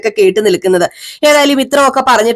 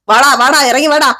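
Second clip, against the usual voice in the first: mild hurried calling; 4 semitones higher than usual. Retold or imitated. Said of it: "Sachi വേഗം വിളിക്കുകയാണ്".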